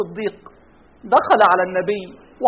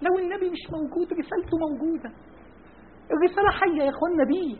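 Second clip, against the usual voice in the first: softer emphasis; 2 semitones higher, 11 dB quieter than usual. Real, not acted. Drops voice.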